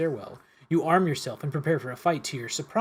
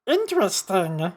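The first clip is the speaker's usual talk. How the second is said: mysterious whisper; 5 semitones higher, 4 dB louder than usual. Acted. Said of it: "he whispers".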